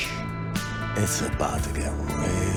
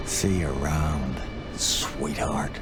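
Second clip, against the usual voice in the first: mocking menace; 6 semitones lower than usual. Benny's parting threat.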